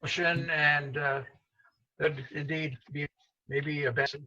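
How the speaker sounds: choppy call audio with heavy echo; breaking up like a bad line in an echoey room; echo chamber. Real, not acted. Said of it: "Sounds like you're in an echo chamber".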